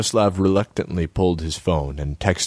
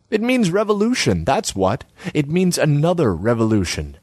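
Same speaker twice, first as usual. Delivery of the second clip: higher pitched, nagging artsy woman; Selma's voice; 9 semitones higher than usual. Acted. Selma needles Borislav about his empty kiosk, high voice.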